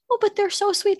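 high gushing mock cat lover. Mocking cat lovers with a high sugary coo. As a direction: coo it like a doting cat owner. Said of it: "people who talk about cats".

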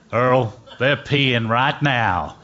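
slow mock Southern drawl; lightly voiced good ol' boy, drawn out; Texan heckler. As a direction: imitate a deadpan Dallas heckler. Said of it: "comes a voice".

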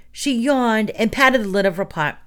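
ordinary delivery

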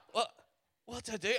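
high, stammered question; panicked. Retold or imitated. Robbed in the street with empty wallet, high-pitched panic. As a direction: gasp it out at a loss. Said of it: "this panic moment".

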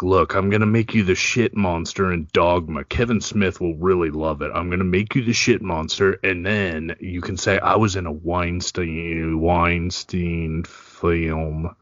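put-on lightly done New York Jewish accent; a hint of a Jewish producer accent. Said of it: "I think that was my Jewish accent".

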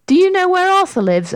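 high, quick eager question; daring question. A narrator's reading. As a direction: blurt it out bravely. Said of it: "proud of herself for daring".

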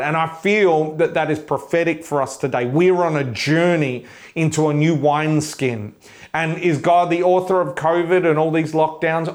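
rising preacher's declaration; fervent sermon delivery; preaching. Acted. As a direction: proclaim it over the congregation.

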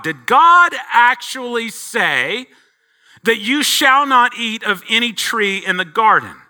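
a hint of the tempter twisting the words; serpent misquoting. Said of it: "he purposely misquotes God".

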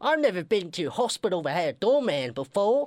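put-on sick patient in a British accent. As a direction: croak it out in a bad British accent. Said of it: "something with British accents".

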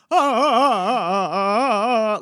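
loud slow wailing ah cries; keening wail. Retold or imitated. Voice teachers at a keening workshop, loud slow wailing. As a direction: wail the ahs like a mourner. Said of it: "a keening workshop".

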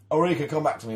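loud, high mock cry to Ulrika; hammed-up Gladiator call. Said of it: "pop up through the trapdoor and go".

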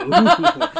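high, laughing ooh; mock evil-plan glee; high-pitched scheming coo; gleeful "ooh".

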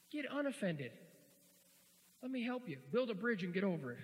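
high, emphatic comeback; mock scolding. Preacher giving blunt advice to an offended churchgoer, mock scolding.

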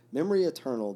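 joining in. A narrator's reading. Boys echoing Alyosha's tribute, mild exclamation. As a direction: echo it like a group response, lightly acted. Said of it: "the boys again joined in".

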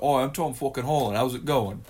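casual mock British accent; Tom Holland. Host mimicking the actor in interviews, light British accent. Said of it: "when now Tom Holland's in interviews".

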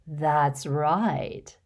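put-on fussy, gushing rich old lady, laughing in; a vain old witch showing off to a charming boy; giggly hostess voice. Hepzibah delighted.

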